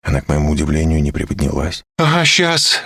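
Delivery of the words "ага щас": high, loud mocking "yeah right"; sarcastic refusal. A narrator's reading. Olga refuses to get off him, sarcastic. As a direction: scoff at the request. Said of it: "говорит".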